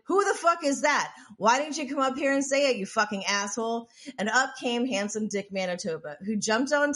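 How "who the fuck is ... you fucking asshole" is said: higher-pitched challenge, easing toward the end; retold angry retort. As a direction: imitate a singer snapping back at a heckler. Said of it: "Jane responded".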